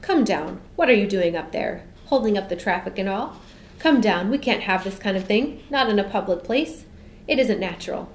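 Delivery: loud, scolding policeman; angry. Acted. Policeman scolds the girl in the sky, loud and angry. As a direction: order her down, indignant and firm. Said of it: "he said angrily".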